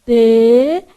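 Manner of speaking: T dito com um sorrisinho; T com os lábios esticados; isolated T. Shown as a demonstration. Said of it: "fez seu sorrisinho cínico". (T com sorrisinho cínico)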